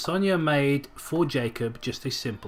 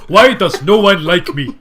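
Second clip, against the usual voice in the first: higher, louder sad voice; mock sad warrior; 3 semitones higher, 10 dB louder than usual. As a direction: whine it like a lonely warrior. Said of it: "huge wooden mask and spear".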